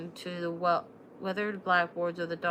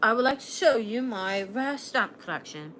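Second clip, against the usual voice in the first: playful mock French accent, a little louder; hammed-up French suitor; exaggerated French accent; 3 semitones higher, 5 dB louder than usual. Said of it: "said with an exaggerated French accent".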